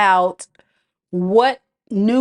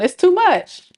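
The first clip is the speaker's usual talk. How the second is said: overwhelmed; 8 semitones higher than usual. Retold or imitated. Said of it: "You like".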